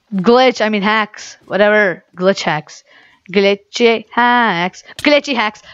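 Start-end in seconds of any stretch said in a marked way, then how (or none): 3.3-4.8 slow, drawn-out glitchy hacks. Shown as a demonstration. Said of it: "repeats phrase slowly". 5.0-5.6 higher, quicker glitchy hacks; higher pitch. Shown as a demonstration. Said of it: "repeats phrase higher".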